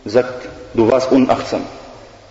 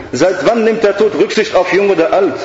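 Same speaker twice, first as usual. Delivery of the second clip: devil's retort; 4 semitones higher than usual. Retold or imitated. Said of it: "Sagt er".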